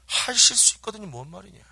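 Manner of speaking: mildly voiced indignant retort; a touch of exasperation, acted; Jesus. Jesus answering the doubting father, mild acted indignation. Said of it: "뚜껑이 확 열려가지고".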